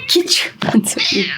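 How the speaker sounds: whispered coax; hushed repeat to lure the cat. Real, not acted. Coaxing the cat.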